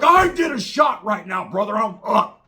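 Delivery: high, loud, drawn-out wired yell; imitated amped-up bellow; retold screaming. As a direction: shout it hyped up like a tweaking biker. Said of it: "isn't your fucking throat fucked up".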